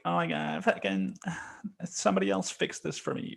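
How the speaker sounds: mocking high, sighing wimp; mock-feeble, high-pitched complaint; helpless wimp. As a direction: imitate a helpless whiner pleading for rescue. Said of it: "I'm not a fucking pussy".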